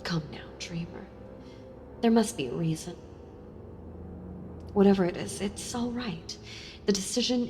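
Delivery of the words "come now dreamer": soft coaxing whisper. Acted. Coaxing Dreamer to answer.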